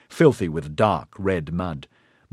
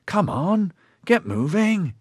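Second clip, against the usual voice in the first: impatient; 11 semitones higher, slower than usual. Acted. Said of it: "long-talked impatiently".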